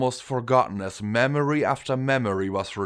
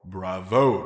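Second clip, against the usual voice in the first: a gentle, approving bravo; warm praise; 2 semitones lower, 3 dB louder than usual. A narrator's reading. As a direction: praise her kindly. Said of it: "The unicorn stallion spoke warmly".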